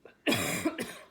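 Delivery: loud throat-clearing cough. A narrator's reading. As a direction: cough before speaking up. Cough before the king's outburst.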